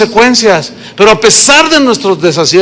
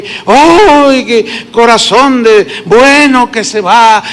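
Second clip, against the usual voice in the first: mild mock lament; slower than usual. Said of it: "Y empieza".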